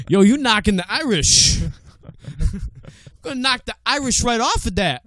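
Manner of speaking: a hint of a movie mobster calling out Carl; mock tough guy. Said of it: "that wasn't the accent I was implying".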